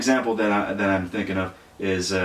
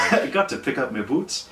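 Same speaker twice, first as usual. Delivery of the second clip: mock Scottish accent; 5 semitones higher than usual. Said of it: "Sound more like Australian".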